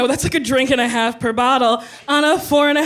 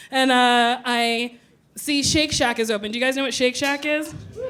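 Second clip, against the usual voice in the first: usual speaking voice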